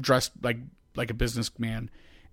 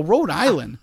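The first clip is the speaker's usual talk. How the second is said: higher, louder questioning echo; retold puzzled echo; 4 semitones higher, 5 dB louder, slower than usual. Teller questions the stranger's answer, retold puzzled echo. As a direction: repeat it back in mock disbelief. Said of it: "And I go".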